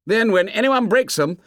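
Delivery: put-on high-pitched boyish excitement; excited cry. A narrator's reading. Jack relishes lots of rules for the boys, excited. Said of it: "he cried excitedly".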